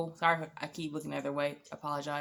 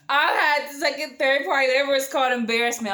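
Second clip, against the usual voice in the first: exclaimed; 6 semitones higher, 8 dB louder than usual. Real, not acted. Cringing at his rudeness.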